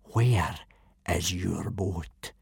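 quiet before the storm; dangerously calm. Acted. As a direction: Gobber dangerously calm at the boys. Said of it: "his voice dangerously calm".

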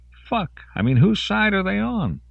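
high, exasperated rant; indignant outburst. Acted. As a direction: pitch it way up in disbelief. Soldier ranting after the fight.

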